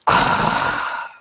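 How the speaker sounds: breathy ahh after a sip of coffee; satisfied coffee sigh. Real, not acted. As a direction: let out a relishing ahh. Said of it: "that was probably disgusting".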